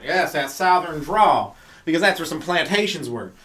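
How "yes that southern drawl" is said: slow, lightly put-on Southern drawl. Shown as a demonstration. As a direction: stretch it out in a mock Southern accent. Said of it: "they always use that Southern accent".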